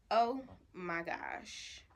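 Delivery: slow, breathy oh my gosh after a gasp; stunned gasp. Real, not acted. Seeing the broken palette, stunned and slow. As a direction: let the shock land slowly.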